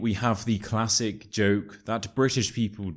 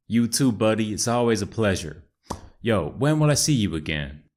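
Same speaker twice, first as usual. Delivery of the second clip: put-on American accent; 3 dB louder than usual. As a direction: play Chad, an American bro. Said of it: "my amazing American accent".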